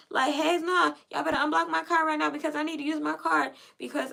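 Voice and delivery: a mock-heated rant at the bank; indignant demand. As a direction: push back hard, half-yelling. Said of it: "I'm like".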